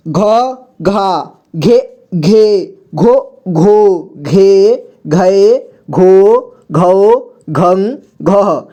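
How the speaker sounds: slow घ series, each syllable apart; syllable drill. Shown as a demonstration. Teacher recites घ series so learners can read, slow drill. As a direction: recite each syllable, drawing out the long vowels. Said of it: "ताकि आपको सुनकर सभी को पढ़ना आ जाए".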